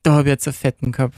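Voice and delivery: zügiger Beispielsatz im Pinzgauer Dialekt; Salzburger Dialekt. Shown as a demonstration. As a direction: sag es flott im Pinzgauer Dialekt. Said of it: "So sagst du das?". (Salzburger Mundart, schnell dahingesagt)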